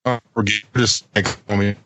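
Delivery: choppy robotic breakup; glitching robot voice. Real, not acted. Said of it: "the robot is malfunctioning".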